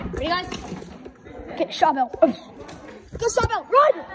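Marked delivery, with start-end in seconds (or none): 2.2-3.7 slow drawn-out call. Pretend. Kid calls to friends to grab Charbel, slow and drawn out. Kids' pretend battle, calling orders. 3.7-4.1 loud, high yell; shouted order. Pretend. Kid yells at friends to run from the babies, loud and high. Kids flee in pretend battle.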